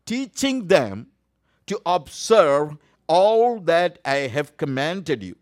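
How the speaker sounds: slow, with all weighted and drawn out; slowed scripture read with all stressed. Shown as a demonstration. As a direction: lean hard on the word all. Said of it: "I give an emphasis for the word all".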